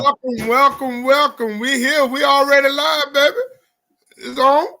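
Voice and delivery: distorted robotic phone voice; glitchy robot-sounding audio. Real, not acted. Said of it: "you sound like a robot".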